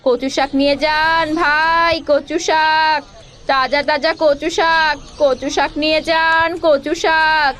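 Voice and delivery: drawn-out market cry selling greens; hawker's call. Acted. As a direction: call out to passing buyers, stretching the words. Street vendor calling out wares. (ফেরিওয়ালার হাঁক)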